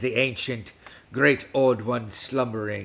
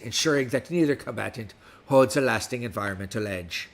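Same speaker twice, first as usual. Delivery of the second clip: put-on West Country pirate accent throughout. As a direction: talk like a pirate all episode. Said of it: "with me speaking like a pirate".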